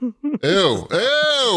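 high squealing "ew"; disgusted. Real, not acted. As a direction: recoil in disgust, voice shooting up. Grossed out by bird poop.

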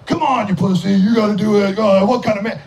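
lightly mocked goading buddy; pushy mock taunt; peer-pressure jeer. Voicing peer pressure about drinking.

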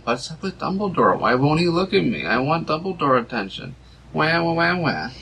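whiny plea dissolving into mock wailing; Harry Potter. Fan mocking Harry begging for Dumbledore's attention, whining.

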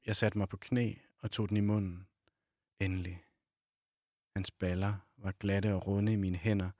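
measured novel reading with pauses between phrases; literary reading aloud. A narrator's reading. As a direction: read the passage aloud, unhurried.

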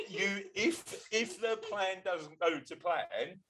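that voice. Pretend. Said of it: "in that voice".

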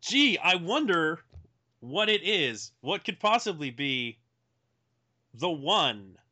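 high, slow sarcastic wondering; mock suspense. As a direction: tease the obvious answer. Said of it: "mock suspense before naming favorite".

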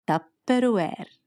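تبروير said slowly and drawn out as tab-r-weer; slow, deliberate تبروير with a falling end; Lebanese word for tupperware. Shown as a demonstration. Teaching the audience how Lebanese say تبروير, slowly and clearly. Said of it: "منقول".

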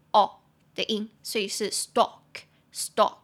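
"stalk" with an "aw" vowel, silent L. Shown as a demonstration. Teacher correcting the spelling trap, "stalk" said as "stawk". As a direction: say "stalk" slowly and firmly as "stawk". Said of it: "但那个A L它发哦".

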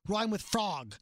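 slow, pointed disbelief; retold indignant question. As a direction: lean on dog and frog in mock outrage. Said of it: "I said".

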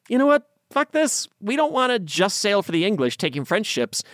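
high, rowdy mutineer pirate voice; rowdy pirate crew. Retold or imitated. Crew voiced defiantly ditching their orders to sail for themselves, rowdy and high. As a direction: toss off the captain's orders with a whoop. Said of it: "Culliford and a bunch of the crew decided".

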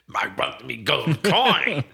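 slow, lightly put-on Irish leprechaun voice; Irish leprechaun accent. Podcast host jokes as a leprechaun, slow Irish accent. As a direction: drag it out like a cartoon leprechaun. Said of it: "his leprechaun uniform".

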